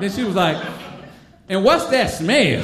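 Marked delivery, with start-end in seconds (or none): 1.5-2.6 slow, suspicious question; slow, drawn suspicion; suspicious sniff. Retold or imitated. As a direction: wrinkle up at the smell. Tracy sniffing the marker.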